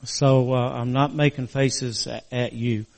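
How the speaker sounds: talking with a crooked mouth after surgery; slightly slurred, stiff mouth. Real, not acted. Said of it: "my mouth's still a little crooked".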